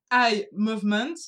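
apologetic attempt at an English accent. Shown as a demonstration. French speaker warns listeners before reading the acronym, attempted English accent. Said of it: "attention, l'accent anglais, pardon d'avance".

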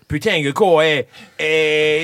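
badly faked accent from the south of France; mock Midi accent; southern French accent. Shown as a demonstration. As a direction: stick a hard G on nasal endings, southern style. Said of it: "un petit accent du sud".

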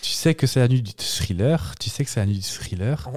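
measured refrain, spoken not sung; spoken lyric recitation. Acted. Host reciting translated chorus, measured spoken recitation. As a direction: recite the refrain, repeat settling down. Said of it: "je les restitue parlées".

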